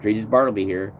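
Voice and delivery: light touch of a Southern accent. Shown as a demonstration. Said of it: "I start to do the Southern accent".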